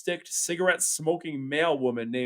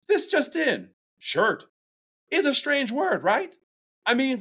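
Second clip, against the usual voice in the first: punchy stand-up delivery; comedian bit; 4 semitones higher than usual. Acted. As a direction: work the room like a comic. Cynthia's comedy routine in class.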